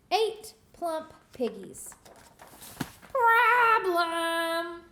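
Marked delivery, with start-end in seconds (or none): 3.1-4.8 high, loud shrieked Problem; screech. Acted. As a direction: screech it like an outraged witch. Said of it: "screeched Gritch".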